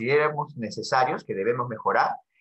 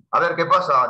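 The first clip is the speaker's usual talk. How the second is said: louder, challenging "A ver qué pasa"; angry tone; 3 semitones higher, 5 dB louder than usual. Shown as a demonstration. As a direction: dare someone to start trouble. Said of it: "mi tono puede ser también de enojo". (tono de enojo, desafiante y fuerte)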